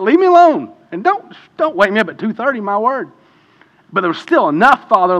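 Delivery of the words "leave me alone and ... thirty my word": much higher and louder, exasperated snap then trailing off; mock angry outburst. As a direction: vent like a worn-out dad woken at night. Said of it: "I was mad at him".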